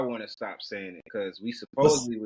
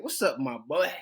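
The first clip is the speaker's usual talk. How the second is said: put-on light Southern accent; 3 semitones higher than usual. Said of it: "with that Southern accent".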